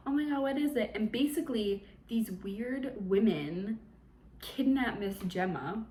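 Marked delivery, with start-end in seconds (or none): 0.1-0.9 mock startled alarm. Acting out characters startled by noises.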